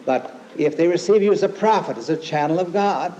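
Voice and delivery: preacher lifting the scripture contrast. Retold or imitated. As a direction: build it up over the first line. Contrasting rewards, prophet second, raised.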